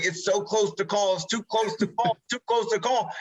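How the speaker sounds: high-pitched, repeating in mock fluster. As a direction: retell it as a harried last-second update. Retelling frantic last-second live call.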